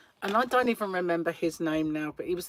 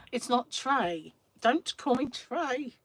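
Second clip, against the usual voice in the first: slow, higher, drawn-out protest; mock exasperation; 6 semitones higher, slower than usual. Speaker telling sister not to call her Trey, mock exasperated. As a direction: drag out the objection in mock annoyance. Acts out objecting to nickname.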